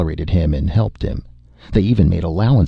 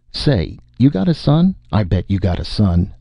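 put-on drunken excitement; 3 semitones higher than usual. Drunk spacer quizzing the driver about his son, eagerly. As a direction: pounce on the thought with boozy glee.

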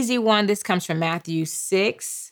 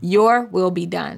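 slow call to repeat. Shown as a demonstration. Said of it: "I need for you to say".

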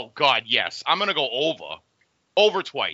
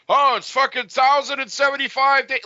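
mocking quote; 11 semitones higher, 5 dB louder than usual.

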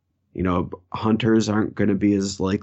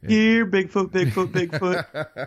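calling out; 11 semitones higher, slower than usual. Pretend. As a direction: call him like a lost dog. Calling out for Bigfoot in woods.

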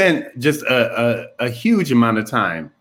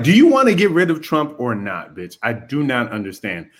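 mock exasperated. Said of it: "I'm like".

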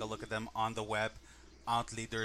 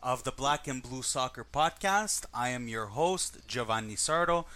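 grand entrance announcement; 2 semitones higher than usual. Acted. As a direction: roll it out like an emcee. Host opens the show.

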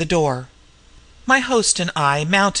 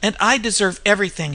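gasping; 2 semitones higher than usual. Acted. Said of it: "she gasped".

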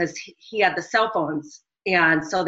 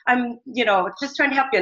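pleading; 5 semitones higher than usual. Retold or imitated.

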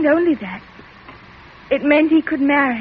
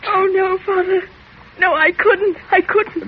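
tearful pleading; 3 semitones higher than usual. Acted. Daughter pleading, near tears.

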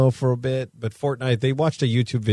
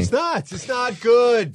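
high, slow mock agreement; mock serious; 10 semitones higher, slower than usual. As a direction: agree in an exaggerated put-on voice.

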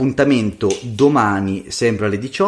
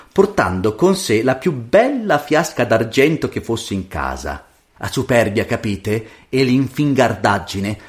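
lively storyteller's voice; fairy-tale narration. A narrator's reading. Storyteller reading a fairy tale to a child, lively narration. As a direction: tell it expressively to a child.

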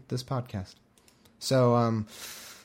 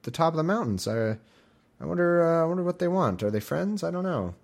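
higher, lightly voiced puzzled guy; paraphrased Gaal; 6 semitones higher than usual. Gaal spots men on the mountains, naive and puzzled. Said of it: "He's like".

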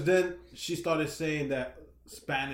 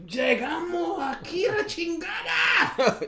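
much higher, slow, shouted Spanish; triumphant shout; 14 semitones higher, slower than usual. Pretend. Migrants who climbed the wall shouting at Señor Trump, triumphant Mexican yell. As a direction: yell it in Trump's face like you made it.

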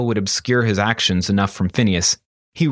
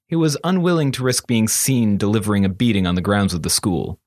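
usual speaking voice

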